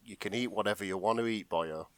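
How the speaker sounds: contain the exasperation, mildly; understated strained indulgence; barely keeping it together. Acted. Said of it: "trying to keep his shit together".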